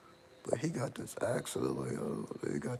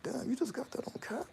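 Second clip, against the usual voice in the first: awed whisper. Retold or imitated. Repeating quote, hushed awe.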